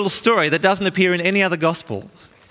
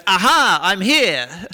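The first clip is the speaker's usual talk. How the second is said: heroic aha; 2 semitones higher, slower than usual. Retold or imitated. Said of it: "Peter jumps up and goes".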